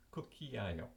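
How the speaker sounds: "Cucchiaio" joined up as Italian kook-kee-EYE-oh; pronunciation demo. Shown as a demonstration. Teacher completing the mnemonic with the Italian word, pronunciation demo. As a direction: run "Cucchiaio" together, ending on a fall. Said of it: "how to pronounce it".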